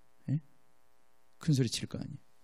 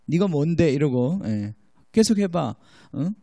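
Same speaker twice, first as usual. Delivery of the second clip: lightly voiced sneering demon; mock taunting demon; slower than usual. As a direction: tease back like a cheeky spirit refusing. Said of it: "막 이렇게 깐죽거리고". (가볍게 흉내 낸 깐죽거리는 귀신 말투)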